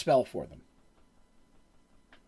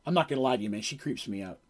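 nervous wizard; 4 semitones lower, 6 dB quieter than usual. Retold or imitated. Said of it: "the car turns and goes".

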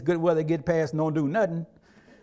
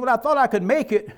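son's excuse; 4 semitones higher, 4 dB louder than usual. Retold or imitated. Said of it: "He said".

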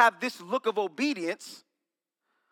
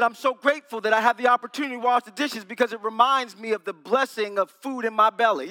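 mock sweet; 5 dB louder than usual. Kid's fake cheerful reply to mother.

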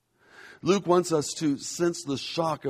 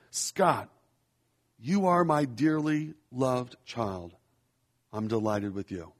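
slow quiet reflection. Shown as a demonstration. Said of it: "Try reading it slowly ... reflect quietly".

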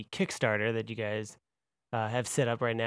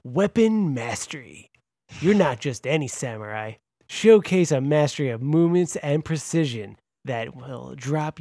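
radio voice. Pretend. Host announcing the samurai class deck, radio voice. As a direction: sell it like a trailer voice-over. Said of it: "the radio voice for that".

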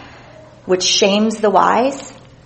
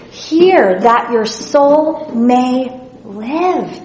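slow plea; 3 semitones higher, much slower than usual. Acted. Reading scripture plea slowly.

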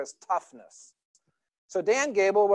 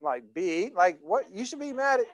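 puzzled father; 3 semitones higher than usual. Retold or imitated. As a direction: ask him why, baffled. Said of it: "I said".

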